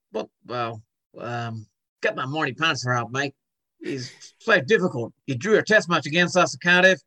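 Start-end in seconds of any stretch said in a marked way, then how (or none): 2.0-7.0 hesitant attempt at an Australian accent; put-on Australian accent; Aussie accent. Shown as a demonstration. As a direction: have an off-form go at Aussie cricket talk. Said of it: "what about an Aussie accent?".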